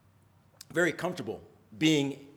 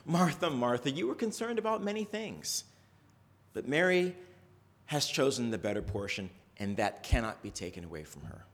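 gentle, soft rebuke that fades quieter; mild chastising; 4 dB quieter than usual. Acted. Jesus gently correcting a fussing Martha, soft and calm. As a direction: correct her kindly, without any edge. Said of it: "Jesus sort of mildly chastises her".

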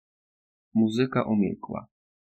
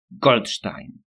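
yell; 4 dB louder than usual. Acted. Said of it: "wrzasnął malec".

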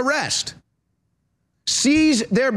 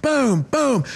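mimed punch sounds; 4 semitones higher than usual. Retold or imitated. Imitates the punches.

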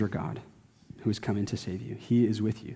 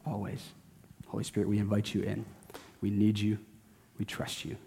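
pastoral prayer. Acted. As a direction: pray it gently over the people. Closing prayer.

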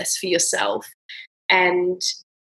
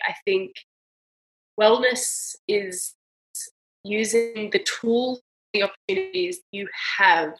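choked up; 3 semitones higher than usual. Real, not acted. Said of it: "I'm gonna try not to cry".

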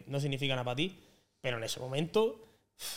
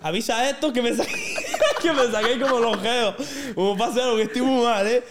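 urgent plea; 7 semitones higher, 6 dB louder than usual. Retold or imitated. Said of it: "la cojo así el brazo".

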